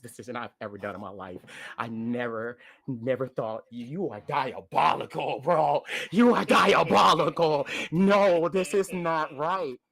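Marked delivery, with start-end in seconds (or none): 3.7-9.8 loud, slow, disbelieving cry of diabolical; hammed-up shout at the impossible choice; mock outraged yell. Friend yells at the host over the cruel song choice, mock outraged.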